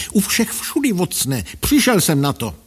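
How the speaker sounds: high cry of sudden discovery; excited exclamation. A narrator's reading. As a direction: exclaim as the answer suddenly strikes.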